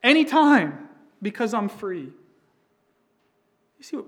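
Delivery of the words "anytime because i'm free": mock free-spirit boast. Mocking someone abusing freedom.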